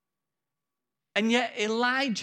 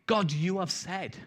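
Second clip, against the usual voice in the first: earnest claim; 4 dB quieter than usual. Shown as a demonstration. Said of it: "But praying".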